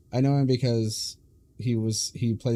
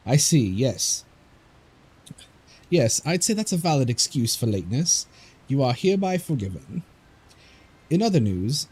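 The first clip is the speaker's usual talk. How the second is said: a touch higher, louder heroic read; lightly voiced stern ally; game character voice; 4 semitones higher, 3 dB louder than usual. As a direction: announce it like a confident guide. Voicing a game character's lines.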